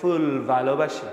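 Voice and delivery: mock foreign-accented Bangla, teeth on lip; foreigner's accent in Bangla. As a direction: imitate a foreigner speaking Bangla, f and v sounds. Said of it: "আর বিদেশিরা বলবে".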